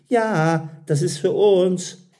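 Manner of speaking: high, loud happy claim; delighted girl. A narrator's reading. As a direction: pipe up eagerly as the waiting customer. Delighted girl claps, claims order.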